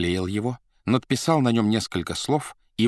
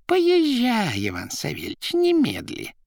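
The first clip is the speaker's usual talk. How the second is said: high, loud command; urgent order; 3 dB louder, slower than usual. A narrator's reading. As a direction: hurry him off. Rimsky ordering.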